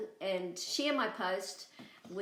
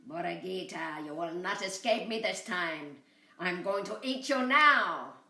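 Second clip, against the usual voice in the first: coyote threat; 5 dB louder than usual. Acted. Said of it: "and he said".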